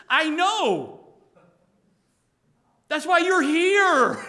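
full-force pulpit declaration; fervent preaching. Real, not acted. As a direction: drive it home to the congregation.

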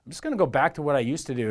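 a touch of woe; mildly woeful. Acted. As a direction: voice Peter giving up, understated. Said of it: "kind of woefully thinking".

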